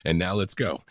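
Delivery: "And now" flowing straight into "let's go"; no pause after "now", keep it casual; run-on AND NOW. Shown as a demonstration. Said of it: "now doesn't have to always be separated".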